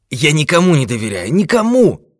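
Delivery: put-on worked-up old man, high and loud; heated. A narrator's reading. Old man refusing to trust the detective, heated. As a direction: climb to a loud, high cry of distrust. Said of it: "горячился старик".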